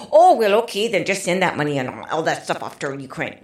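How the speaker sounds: mock the easy answer with heavy sarcasm. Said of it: "I'm sorry for the sarcasm".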